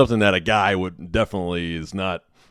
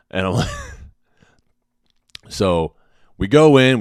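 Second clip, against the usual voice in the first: ordinary talk, nothing marked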